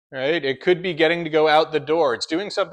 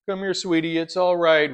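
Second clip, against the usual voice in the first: a touch higher, soothing an anxious dog; nurturing coo; 4 semitones higher than usual. Retold or imitated. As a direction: lightly coo to a scared pet. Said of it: "We nurture".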